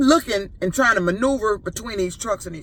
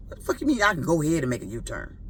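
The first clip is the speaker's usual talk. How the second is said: fast, lower, quieter indignant retort; incredulous thought; 4 semitones lower, 4 dB quieter, faster than usual. Retold or imitated. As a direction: fire it back under your breath. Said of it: "I ain't say that to her, but that's what I'm thinking".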